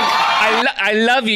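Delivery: high mock Latina accent; mock Hispanic accent. Host echoes the clip he played, high mocking Hispanic accent. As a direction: echo her in a put-on Hispanic accent. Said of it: "that's the Hispanic gal, right?".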